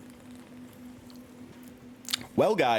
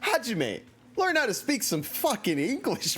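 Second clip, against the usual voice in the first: mock scolding; 10 semitones higher than usual. Teasing game character.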